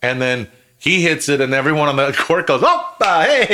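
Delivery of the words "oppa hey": celebratory shout. Retold or imitated.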